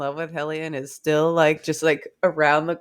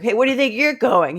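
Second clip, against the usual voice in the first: higher-pitched play-acted scolding; mock indignant challenge; 7 semitones higher, 4 dB louder than usual. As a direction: call them back, affronted.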